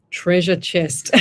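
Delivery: "Treasure chest" said slowly after stumbling; deliberate, drawn-out "Treasure chest"; careful pronunciation. Real, not acted. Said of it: "I can't even say it".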